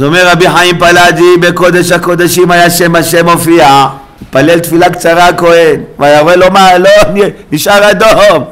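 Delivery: loud, ringing sermon delivery; impassioned preaching. Real, not acted. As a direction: declaim it forcefully to the congregation. Preaching at full force. (דרשה נלהבת)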